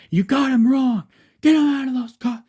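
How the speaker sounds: high-pitched, loud yelling protest; almost screaming. A narrator's reading. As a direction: scream it at the cops like an outraged inmate. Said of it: "screaming almost".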